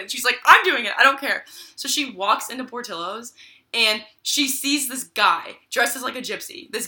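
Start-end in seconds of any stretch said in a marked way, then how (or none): 0.4-1.4 high, loud imitation of defiant mom; mock freaking out. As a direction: act out mom's frantic defiance. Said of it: "she's, like, crying. She's freaking out".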